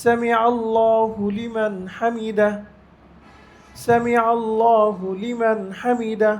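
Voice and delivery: slow, natural recitation; normal pronunciation demo. Shown as a demonstration. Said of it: "স্বাভাবিক যে উচ্চারণ, সেই উচ্চারণ বলবে।". (স্বাভাবিক উচ্চারণে ধীর তিলাওয়াত)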